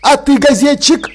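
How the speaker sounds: menacing growl. A narrator's reading. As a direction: bark it at the newsman. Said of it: "рыкнул Малодикт".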